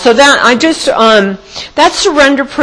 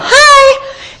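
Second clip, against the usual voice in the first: very high mock-cheery hi; big-smile greeting; 4 dB louder than usual. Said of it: "Big smile".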